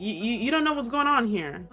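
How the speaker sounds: stammering, mildly indignant; a touch of acted anger; mildly mad. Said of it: "I feel like Adrian would get mad".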